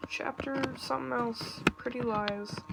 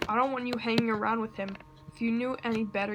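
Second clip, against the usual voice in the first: stern father warning; 4 dB louder, faster than usual. Acted. Drunk abusive father threatens son.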